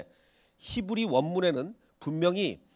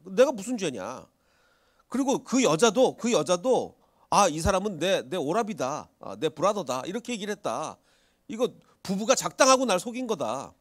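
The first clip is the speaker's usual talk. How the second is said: indignant protest; 4 semitones higher than usual. Retold or imitated. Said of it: "아비멜렉이 이렇게 대답합니다".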